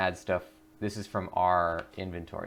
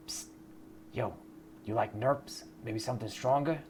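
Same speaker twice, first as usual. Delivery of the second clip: lightly voiced sly street dealer; shady dealer; 3 semitones higher, 5 dB quieter than usual. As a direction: sidle up like a pusher.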